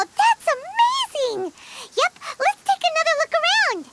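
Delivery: excited awe turning into eager hurry; amazed. Acted. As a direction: gush with wonder then rush on. Amazed the hidden place appears.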